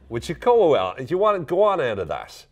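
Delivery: high, loud Irish scoffing; mock disbelief. Friend dismissing a tall tale, mock disbelief. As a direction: throw it out as exaggerated incredulity.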